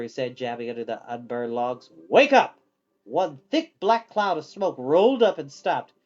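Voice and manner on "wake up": loud, higher wake-up yell; shouted command. A narrator's reading. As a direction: bark it at the sleeping fire. Hal jabbing the fire.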